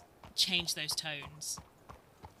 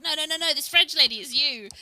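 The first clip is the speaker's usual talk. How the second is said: excited insistence; 8 semitones higher, 12 dB louder than usual. Retold or imitated. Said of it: "He was like".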